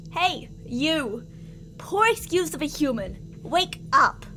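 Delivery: a sharp, firm order to wake; firm command. Acted. Captor orders the tied captive awake, firmly. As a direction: snap the order out, still in control.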